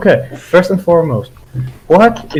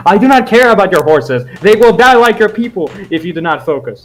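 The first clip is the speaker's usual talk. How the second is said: a bit higher, firmer threat to the native; stern threat; 4 semitones higher than usual. Acted. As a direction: lean in and lay down the ultimatum. Envoy threatens stubborn NPC.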